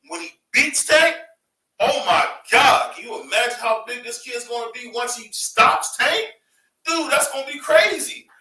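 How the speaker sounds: carried away by the hype; excited. Real, not acted. Hyping the Garcia vs Tank fight.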